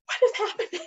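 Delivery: high, laughing bewilderment; laughing disbelief. Retold or imitated. Bride accused by temple matron, high laughing bewilderment.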